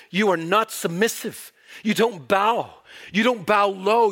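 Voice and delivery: stern divine rebuke. Acted. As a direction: build the rebuke word by word. God rebuking stiff-necked people.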